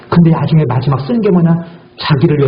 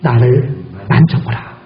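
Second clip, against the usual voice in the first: voice of Jesus; slower than usual. Acted. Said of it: "그 다음에 두 번째 뭐래요".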